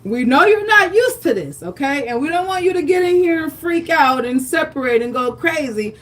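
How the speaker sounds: soothing the cream so it won't separate; voicing the cook coaxing the cream. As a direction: talk to the cream like a nervous friend. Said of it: "This is saying".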